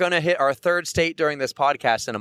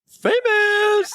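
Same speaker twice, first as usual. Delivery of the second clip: teasing exclamation; 4 dB louder than usual. Real, not acted. Teasing the storyteller.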